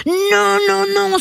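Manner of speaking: série de « non » très aigus et rugis; rugissement de refus. A narrator's reading. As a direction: refuse en rugissant, voix haut perchée. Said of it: "rugit le lion". (non rugi, indigné)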